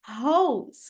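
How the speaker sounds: "rose" said as "hows" with an h-sound; wrong Brazilian R. Shown as a demonstration. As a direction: show the mistake in "rose".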